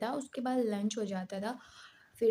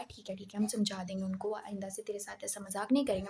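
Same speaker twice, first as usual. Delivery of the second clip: soothing placating; 3 dB quieter than usual. Retold or imitated. Teacher placating her.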